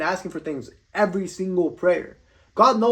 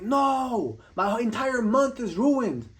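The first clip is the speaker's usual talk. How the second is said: higher-pitched, drawn-out mock lament; mock despair; 4 semitones higher, much slower than usual. Soccer fan lamenting the team's loss, mock despair. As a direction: wail it slowly, mocking an overdramatic sports fan. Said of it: "And they'll be like".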